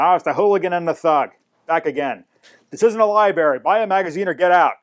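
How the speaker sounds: hammed-up irritation at unwelcome regulars; imitated short temper. Shop owner greeting the hooligan and the thug, mock irate. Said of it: "he had a really short temper".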